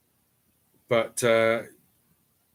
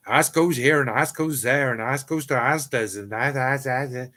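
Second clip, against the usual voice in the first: lightly imitated Plymouth accent, run on in a chain; a hint of mock Plymouth dialect. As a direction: mimic a Plymouth local rattling on. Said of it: "they've got a different accent to, to mine".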